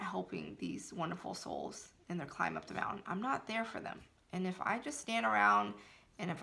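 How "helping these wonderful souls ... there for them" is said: whisper. Real, not acted. Confessing her failing.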